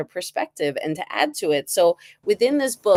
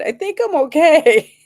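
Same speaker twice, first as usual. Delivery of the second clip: self-centered; 10 semitones higher, 7 dB louder than usual. Retold or imitated. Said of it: "being all self-centered".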